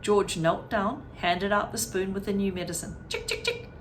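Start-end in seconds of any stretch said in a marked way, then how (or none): 3.1-3.7 high sing-song chick call; calling a hen. A narrator's reading. Boy calling the little brown hen, high sing-song.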